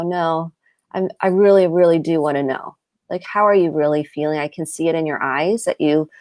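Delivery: gentle, interested tone; softened, genuinely interested. Shown as a demonstration. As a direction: ask like you truly want to know. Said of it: "I softened my tone. I sounded really genuinely interested".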